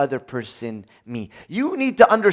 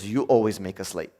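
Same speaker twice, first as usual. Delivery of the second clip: mild accusation; 8 semitones lower, 4 dB quieter than usual. Shown as a demonstration.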